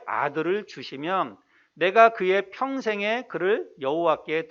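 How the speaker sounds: slow, measured Bible reading; scripture reading. Acted. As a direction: read the verse out slowly and formally. Reads scripture aloud. (느리고 또박또박한 성경 봉독)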